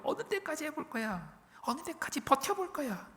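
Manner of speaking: high, mocking enemy voice; mocking taunt. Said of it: "막 조롱하는 거예요".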